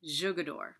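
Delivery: tentative go at "Jugador"; careful name attempt. Real, not acted. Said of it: "Excuse my really poor accent".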